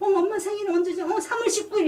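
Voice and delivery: high-pitched imitation of flustered son. Son quizzed on mother's birthday, flustered. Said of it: "애가 당황해서".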